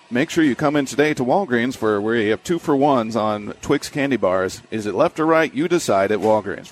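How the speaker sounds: even, upbeat ad read; same broadcast tone for any words; live read tone. Shown as a demonstration. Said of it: "apply that exact same tone".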